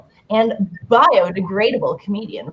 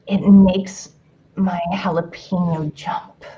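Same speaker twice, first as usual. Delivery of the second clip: sexy voice. Pretend. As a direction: read it like a seductive love letter. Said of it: "Should I read this in a sexy voice? I will".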